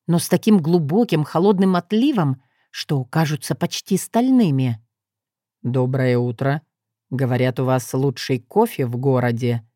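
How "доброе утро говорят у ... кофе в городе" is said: low, cold accusing voice. Acted. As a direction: say it as if it's an accusation. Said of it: "сказал он таким тоном, словно хотел обвинить". (обвиняющим тоном)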